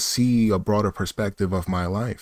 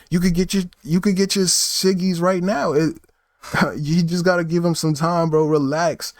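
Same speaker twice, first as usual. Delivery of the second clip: higher, amused calming; laughing it off; 5 semitones higher than usual. Retold or imitated. Narrator calming the angry guy, amused and higher. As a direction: chuckle while telling him to relax. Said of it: "And I'm like".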